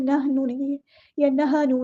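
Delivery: نحنو and نہنو with ح said as plain h; wrong takes of نَحْنُ. Shown as a demonstration. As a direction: demonstrate the wrong h sounds. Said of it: "نہیں پڑھنا".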